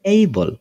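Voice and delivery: এইবল with a gliding "ey" first; correct word pronunciation. Shown as a demonstration. Teacher answering how the spelt word is said, gliding pronunciation. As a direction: say এইবল as "ey-bol". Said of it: "সঠিক উচ্চারণ কি হবে?".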